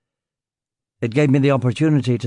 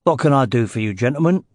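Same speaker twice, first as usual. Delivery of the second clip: Cockney. Acted.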